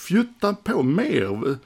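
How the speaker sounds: imitating a star scolding the crew; mock barking. Gene scolding the crew over tiny fires, mock barking. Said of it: "skäller han som fan".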